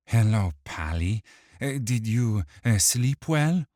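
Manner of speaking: sneering, mocking villain. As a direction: taunt him with a smirk. Dirge taunting.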